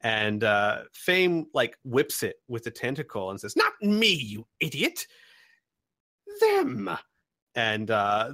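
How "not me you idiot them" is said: high, loud scolding; angry snap. Acted. Merchant Fame scolding the goblin slave, high and loud. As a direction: bark at the clumsy servant.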